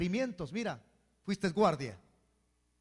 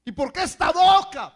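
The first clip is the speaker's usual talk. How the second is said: mock complaining; 10 semitones higher, 12 dB louder than usual. Mocking a complainer to God.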